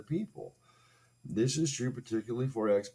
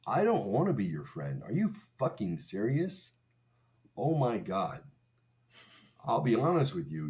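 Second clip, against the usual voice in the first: loud, higher, furious rant at the ex; angry outburst; 3 semitones higher, 5 dB louder than usual. Retold or imitated. Rejecting the ex's friendship offer, loud angry rant. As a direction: tell her off with hammed-up rage. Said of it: "and I said".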